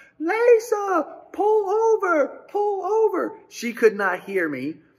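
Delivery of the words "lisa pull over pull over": top-of-the-lungs scream, very high and slow. Driving behind Lisa, retelling screaming at her at the top of your lungs. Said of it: "I'm screaming at the top of my lungs".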